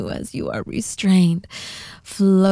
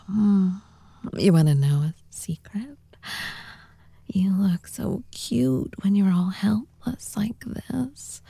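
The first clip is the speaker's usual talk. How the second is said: whispering. Acted. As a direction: whisper close to the mic. Whispered roleplay throughout.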